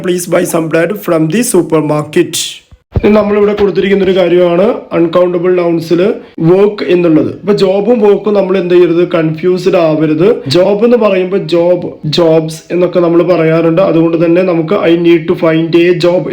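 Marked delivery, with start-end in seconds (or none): 0.0-2.3 very slow, clear reading of the right form; slow corrected example. Shown as a demonstration. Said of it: "some ഉപയോഗിക്കാം". 14.7-16.3 very slow, clear teaching read; slow example. Shown as a demonstration. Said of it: "എന്ന് പറയാം".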